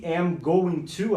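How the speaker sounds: "am going to" said slowly, word by word; slow teaching model; slow demo. Shown as a demonstration. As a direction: stretch it out for the class.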